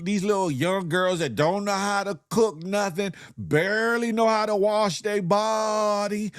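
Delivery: hammed-up sassy wife; mock sassy scolding. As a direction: put him in his place. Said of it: "she said".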